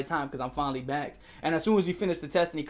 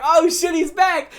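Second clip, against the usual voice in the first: high, loud retold cheer; hyped-up yell, pitch way up; excited screaming crowd; 11 semitones higher, 10 dB louder, slower than usual. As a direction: imitate a classroom erupting. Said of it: "Everybody started screaming like".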